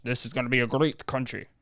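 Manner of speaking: mock Trump voice sliding into a Russian accent; botched Trump, Russian accent. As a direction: do a bad impression that comes out Russian. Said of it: "he talks like this ... That's Russian".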